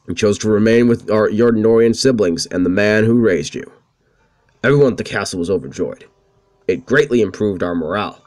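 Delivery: the oily knight apologizing sweetly; Hans voice. Acted. Hans bowing to his princess, oily courtly voice.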